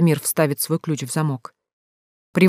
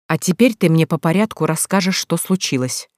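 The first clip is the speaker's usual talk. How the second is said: forced calm. Acted. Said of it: "изо всех сил стараясь выглядеть спокойным".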